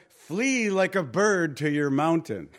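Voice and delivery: laughing as he mimics the messenger; amused mock warning. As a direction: scoff through a chuckle. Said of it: "He says".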